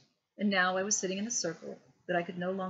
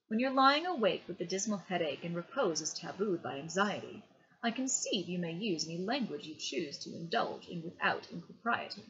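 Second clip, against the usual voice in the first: reciting Gilbert and Sullivan. A narrator's reading. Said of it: "I loved the sounds of the words".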